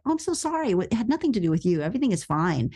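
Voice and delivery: lightly mocked, over-friendly reassurance; apologetic boss. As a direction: imitate a boss brushing it all off. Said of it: "he was like".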